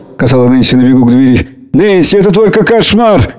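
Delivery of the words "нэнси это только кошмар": выше и медленно, сдержанный крик; окликнуть уходящую дочь; крик вслед. A narrator's reading. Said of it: "крикнула Марш". (мать кричит вслед убегающей Нэнси, лёгкий крик)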